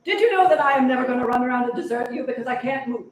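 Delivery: laughing. Acted. Laughing through absurd thought.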